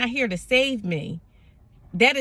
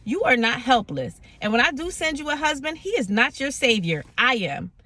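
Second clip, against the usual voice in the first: God's tone; 2 semitones higher than usual. Retold or imitated. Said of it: "exactly the tone that it came in".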